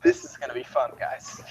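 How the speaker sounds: weak croaked voice; croaking. Acted. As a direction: croak the words out faintly. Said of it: "he just kinda croaks".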